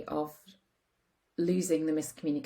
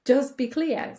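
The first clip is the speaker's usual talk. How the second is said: quoting husband firmly; 5 semitones higher, 4 dB louder than usual. Retold or imitated. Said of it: "He says".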